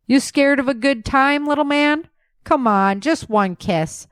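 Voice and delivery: plagerig en hoog, lokkend; teasing. Acted. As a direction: daag hem speels uit.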